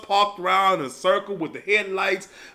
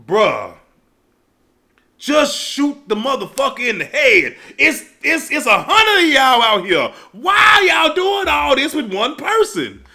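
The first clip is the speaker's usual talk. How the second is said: exasperated yell; 5 semitones higher than usual. Retold or imitated. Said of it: "I'm like".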